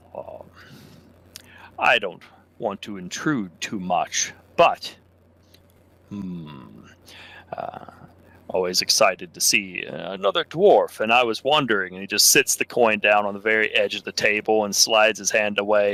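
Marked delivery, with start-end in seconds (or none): 1.8-11.9 slightly lowered voice, drawn-out hmm. Leaning over toward another patron, a character speaks with voice lowered a bit. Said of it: "lower his voice a bit".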